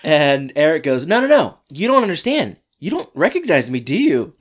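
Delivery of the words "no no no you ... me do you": high, loud and eager; excited high voice. Retold or imitated. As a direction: blurt it out excitedly. Eric acted excitedly.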